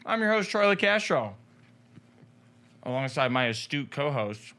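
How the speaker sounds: talking through a mouthful of food; chewing while speaking; mouth full. Real, not acted. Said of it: "I'm talking with my mouth full".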